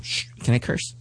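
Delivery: hushed question, breath only; whispered aside. Real, not acted. Asking the host whether swearing is allowed, whispered. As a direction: drop to a whisper to ask.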